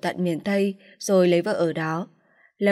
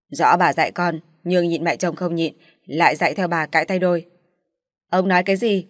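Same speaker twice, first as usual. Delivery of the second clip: father raising his voice, louder; raised voice; 4 dB louder than usual. Acted. Father argues with wife about raising daughter, louder. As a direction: snap back at the wife with raised voice. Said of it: "bèn lên giọng".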